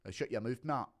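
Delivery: short Scottish threat; Scottish accent. Shown as a demonstration. Demonstrating accent differences to a viewer, Scottish accent. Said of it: "a Scottish accent's a bit more like that".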